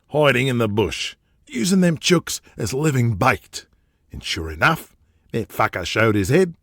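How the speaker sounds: rough Australian boss boasting about his past; Australian tycoon bragging to his underling about hunting; brash Aussie hunter. Acted. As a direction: swagger through the outback tale, Australian. Jack recounts his outback youth.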